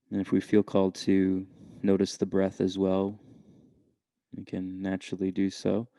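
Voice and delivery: unhurried meditation guide with long pauses; calm, measured meditation voice; guided meditation. Real, not acted. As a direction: gently lead listeners inward, leaving space between phrases.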